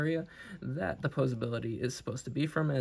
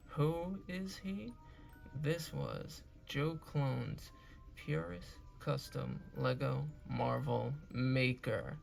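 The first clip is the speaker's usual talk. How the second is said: dramatic announcer; 4 dB quieter, slower than usual. Acted. Dramatic slow outro announcement.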